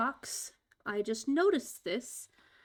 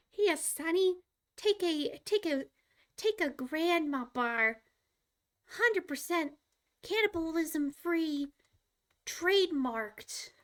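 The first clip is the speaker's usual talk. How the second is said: grandma voice; 5 semitones higher than usual. Pretend. Playing a grandma offering snack.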